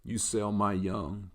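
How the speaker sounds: lightly voiced solemn dog; slow, measured accusation from a pet; talking dog. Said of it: "my pet talks like that".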